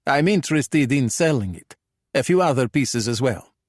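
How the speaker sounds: put-on Italian-accented English; pronounced Italian accent. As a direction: speak like a Calabrian thug trying his English. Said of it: "pitch-perfect Italian accented English".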